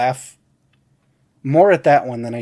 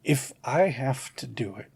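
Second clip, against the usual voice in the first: dropping to a soft, near-whispered beg; hushed plea; 3 semitones lower, 9 dB quieter than usual. Retold or imitated. MacGruber quietly begging his boss for his job back. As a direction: whisper the offer like a desperate secret. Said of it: "I think he says something like".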